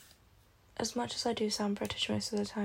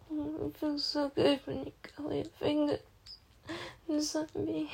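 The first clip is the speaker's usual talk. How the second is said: higher, sensual delivery; intimate performance; 5 semitones higher than usual. Acted. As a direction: moan it to a lover. Intimate performance to an imagined partner.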